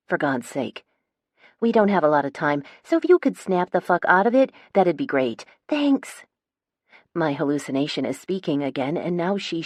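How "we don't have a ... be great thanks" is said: lightly voiced bossy fairy girl; a hint of a sassy young woman; impatient girl. Fairy princess berating narrator.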